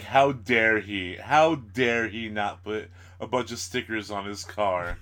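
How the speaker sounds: slow, overdone how dare he; mock outrage. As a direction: ham up the indignation slowly. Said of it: "I like how it's like".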